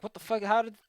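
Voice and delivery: high, loud startled outburst; mock disbelieving yell; shocked king. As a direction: blurt it out as the stunned king. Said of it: "He's like".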